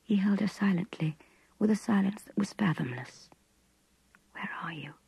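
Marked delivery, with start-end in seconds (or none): 4.3-4.9 hushed softer whisper; whispered question in the dark. A narrator's reading. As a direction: barely voice it, close to his ear. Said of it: "she whispered to him".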